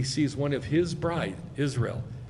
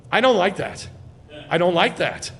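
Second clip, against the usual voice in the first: louder, insistent mock objection; retold jealous protest; 4 semitones higher, 5 dB louder than usual. Husband seeing some guy talk to her, retold jealous protest. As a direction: object firmly, retelling your own jealousy. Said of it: "I'd get mad at myself".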